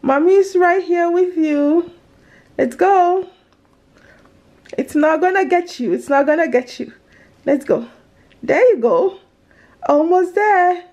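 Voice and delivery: gentle coaxing, mommy's here. Real, not acted. Mother coaxing scared daughter.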